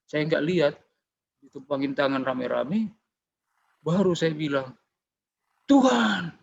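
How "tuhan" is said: higher, falling call to God; retold cry out. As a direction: re-enact crying out to the Lord. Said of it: "Langsung saya teriak gitu". (menirukan teriakan memanggil Tuhan)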